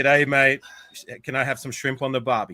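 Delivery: Australian accent cliché as a challenge. Shown as a demonstration. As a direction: demonstrate a stock Australian accent. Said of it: "impersonation of an Australian accent".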